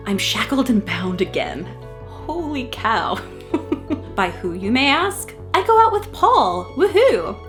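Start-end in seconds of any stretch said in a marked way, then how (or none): 5.5-7.4 mock cheering. Reading diary cheer.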